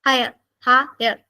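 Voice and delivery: ഹയർ said slowly in two beats; teacher modelling ഹയർ as two syllables; slow pronunciation demo. Shown as a demonstration. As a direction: sound out ഹയർ slowly for students. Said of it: "ആ വാക്കിനെ ഒന്ന് ഉച്ചരിച്ച് നോക്ക്".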